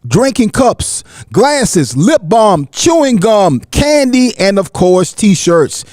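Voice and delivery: brisk, scripted promo delivery; sponsor ad read. Acted. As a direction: read it like a radio sponsor spot. Reads a sponsor ad.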